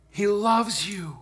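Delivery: slow, tender declaration; tender assurance. Real, not acted. Preacher assures congregation of God's love, slow and tender. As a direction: let each word land slowly.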